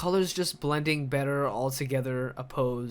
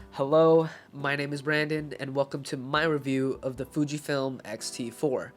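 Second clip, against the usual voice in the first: stuffy nose from a cold; talking through a blocked nose; congested voice. Real, not acted. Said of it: "that's why my voice sounds all muffled".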